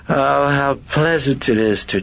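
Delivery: high, gleeful demonic purr of pleasure; grinning demon. Acted. Demon enjoys chatting with the priest, high grinning delight. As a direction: grin through it, pitched high and dropping on the name.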